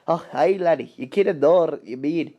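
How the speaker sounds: light Scottish accent, lightly put on; a hint of a Scottish railwayman; Scottish brogue, understated. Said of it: "here's the voice".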